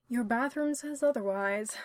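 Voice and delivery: lilting teasing tone; sing-song. Acted. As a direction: sing it out playfully. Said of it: "in a sing-song voice".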